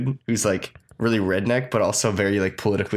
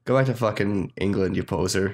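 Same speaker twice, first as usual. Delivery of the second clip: put-on Canadian accent; 3 semitones lower than usual. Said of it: "I guess that was a kind of Canadian accent".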